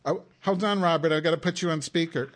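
over-the-top eager greeting; excited. Real, not acted. Excited answering the call.

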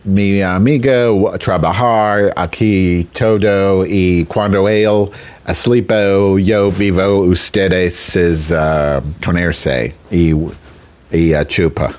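slow, halting mock Spanish; imitated Spanish-speaking woman. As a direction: haltingly retell her reply in makeshift Spanish. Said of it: "And then she said".

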